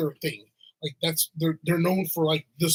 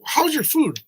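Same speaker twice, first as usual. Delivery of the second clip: much higher, bright-voiced question; asking the girls; 10 semitones higher, 4 dB louder than usual. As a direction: chirp the question up high to the kids. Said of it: "I was like".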